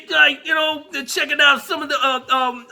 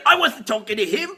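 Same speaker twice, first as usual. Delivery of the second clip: put-on John Soyega, British accent; 2 semitones lower than usual. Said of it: "he said".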